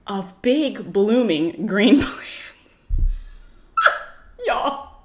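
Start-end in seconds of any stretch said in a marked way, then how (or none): 0.1-2.8 whispered punchline. Real, not acted. Punchline of the plant story.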